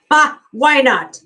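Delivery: a sudden jolly laugh before the words; amused father, loud laugh. A narrator's reading. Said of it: "then laughed and said".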